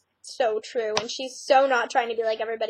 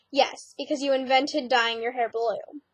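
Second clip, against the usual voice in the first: sarcastic. Retold or imitated. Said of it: "that was sarcasm".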